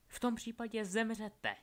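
high-pitched death sentence; villainous threat. A narrator's reading. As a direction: pronounce their doom from on high. Villain sentences the boys to die.

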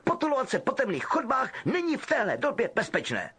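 lightly voiced stern prefect; Percy sending the boys to bed; sternly. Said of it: "řekl Percy přísně".

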